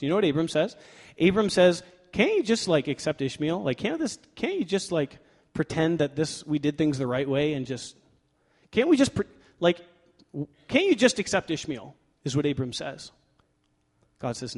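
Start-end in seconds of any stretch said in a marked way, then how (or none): 2.1-11.9 pleading. Acted. Abram pleads with God.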